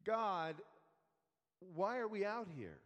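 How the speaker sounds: lightly mimicked complaint; a touch of whiny protest; mock whining. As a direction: imitate people griping to God. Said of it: "and they start whining".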